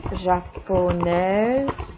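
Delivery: japonaise said very slowly, the -aise ending clear; slow model pronunciation. Shown as a demonstration. Teacher modeling the feminine japonaise slowly for students. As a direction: stretch japonaise out for learners.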